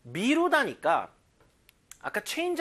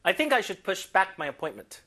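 slow model reading; 2 semitones higher, 3 dB louder, much slower than usual. Shown as a demonstration. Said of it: "model sentence".

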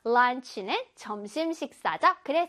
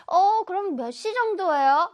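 lightly voiced pupil, higher; pupil's question; 5 semitones higher, 4 dB louder than usual. Pupil asks teacher what time evening is, higher questioning voice. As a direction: ask like a curious student. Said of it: "맞아요".

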